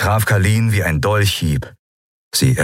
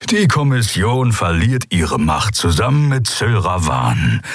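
grumbling. Acted. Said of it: "brummte Skoru".

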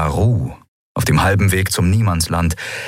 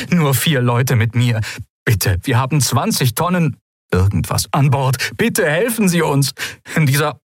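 high, urgent stranger's voice; frightened ship captain calling; desperate distress call; 7 semitones higher than usual. Acted. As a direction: plead for rescue over static.

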